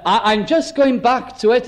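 imitated European-accented salesman; lightly put-on European accent. Roadside seller tells motorist he is going home, European accent. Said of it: "an accent, one of the European accents".

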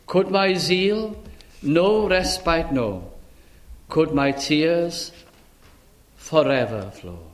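slow, measured reading of a hymn verse; hymn recitation. Acted. Preacher recites a hymn to the congregation, slow and measured. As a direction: let each line of the old hymn settle.

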